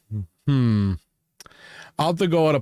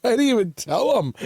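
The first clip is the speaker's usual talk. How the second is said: higher, defensive protest; mock innocent protest; 9 semitones higher than usual. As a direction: insist on your innocence, pitched up. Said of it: "And I'm like".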